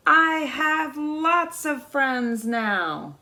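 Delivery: slow, drawn-out happy call across the pond; happy loud call. Acted. Little beaver calling across the pond to his friends, slow and loud. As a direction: call it out slowly, full of joy. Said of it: "said it again very loudly".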